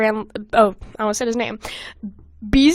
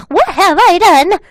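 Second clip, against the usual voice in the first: higher, louder and slow hammed-up despair; anguished cry; 7 semitones higher, 9 dB louder, slower than usual. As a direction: drag it out like an overdone anime lament. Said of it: "let's do that again".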